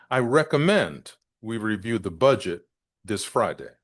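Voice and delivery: measured demo with "recommend" and "budget" picked out; key-word emphasis. Shown as a demonstration. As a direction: stress "recommend" and "budget", pause before "this Friday". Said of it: "Notice the way I said that".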